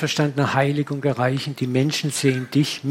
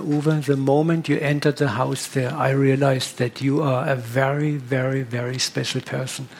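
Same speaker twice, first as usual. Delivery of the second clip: a hint of a tear-choked voice, fading quieter; 2 semitones lower, 3 dB quieter than usual. Moved host asks Uwe his profession in a lightly tear-choked voice. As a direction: gently imitate a man choked up with tears, trailing off. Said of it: "mit Tränen erstickter Stimme".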